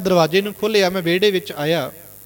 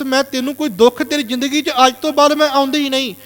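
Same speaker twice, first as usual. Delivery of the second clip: plead, then promise to leave forever; emotional mother; 4 semitones higher than usual. Retold or imitated. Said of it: "ਭਾਵੁਕ ਹੋ ਕੇ ਸ਼ਬਦ ਬੋਲੇ". (ਦੁਖੀ ਮਾਂ ਵਿਦਾ ਹੁੰਦੀ ਭਾਵੁਕ ਅਵਾਜ਼ ਵਿੱਚ)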